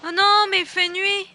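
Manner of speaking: loud, high dismay. Real, not acted. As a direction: groan it in dread. Dismay at darkness. (consternation apeurée)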